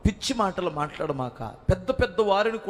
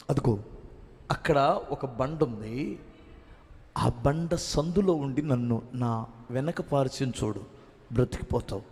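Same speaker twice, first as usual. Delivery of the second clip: God speaking to Moses; 5 semitones lower than usual. Retold or imitated. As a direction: speak as the Lord answering gently from above. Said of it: "ప్రభువు నవ్వి ఒక్క మాట అన్నాడు".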